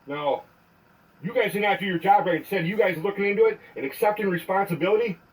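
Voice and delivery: angry voicemail rant; furious message to an officer; leaving a voicemail. Real, not acted.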